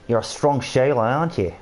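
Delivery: playful, lightly put-on Australian accent; a touch of jokey Australian; mock Australian accent. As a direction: tease in a mock Aussie accent. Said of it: "stop with these accents and stuff".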